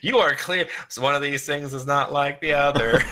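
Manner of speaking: giggling as you mock; amused, laughing singsong; laughing mock quote. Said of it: "I'm like".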